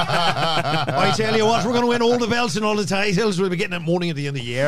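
put-on a light Irish accent, laughing through it; mock Irish fighter brag, half-hearted Irish brogue. Doing a Conor McGregor voice to tease Ben, in a light Irish accent. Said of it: "who hates my accents".

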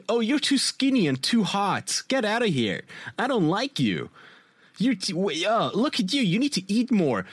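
mock photographer voice. Mocking photographer in Darman video.

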